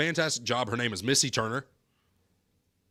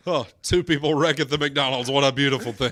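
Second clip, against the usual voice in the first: driver catchphrase echoed; 5 dB louder than usual. Retold or imitated. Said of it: "echoing the driver's line".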